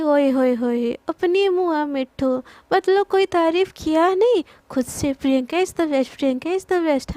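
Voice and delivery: mocking singsong imitation; mock-boastful imitation; teasing mockery. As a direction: tease her in a mimicking voice. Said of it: "उसको चिढ़ाने लगती है".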